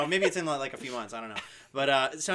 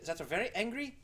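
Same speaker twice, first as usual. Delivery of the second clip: villain voice; 3 semitones higher than usual. Acted. Continues villain voice.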